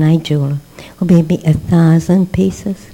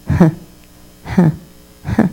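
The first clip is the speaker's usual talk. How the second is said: imitated sobbing gasps. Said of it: "So he starts to cry".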